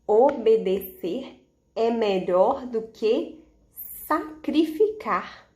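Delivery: reading aloud together. Shown as a demonstration. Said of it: "Vamos ler".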